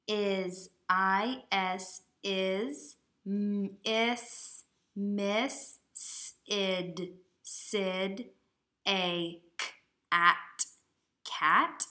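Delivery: decode it sound by sound, haltingly; sounding out slowly. Shown as a demonstration. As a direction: sound out each word like a beginning reader. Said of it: "Is Miss Sid a cat?".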